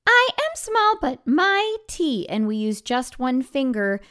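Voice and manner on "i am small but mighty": very high and squeaky, slowing on mighty; tiny Little Nell voice. Shown as a demonstration. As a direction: play a tiny proud character. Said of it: "every time it's Little Nell".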